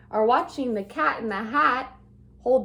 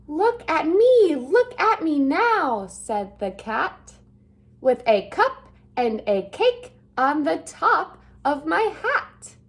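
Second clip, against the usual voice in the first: showing-off cat; 3 dB louder than usual. Acted. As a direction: crow about every trick.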